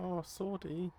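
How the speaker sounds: high-pitched little wail of loss; hammed-up high "oh no"; mock lament. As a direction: play up the dismay, pitched high. Mock lament over lost sword.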